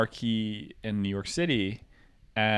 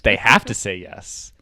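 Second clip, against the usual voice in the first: a hint of Dennis Reynolds, slow and a bit louder; 6 dB louder than usual. Quoting Dennis Reynolds as a joke, lightly menacing. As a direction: deliver it with cold creepy calm. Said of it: "It's the Dennis Reynolds".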